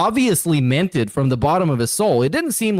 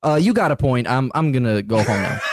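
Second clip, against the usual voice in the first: meek backing down; 3 semitones lower than usual. Retold or imitated. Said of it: "the heel would be like".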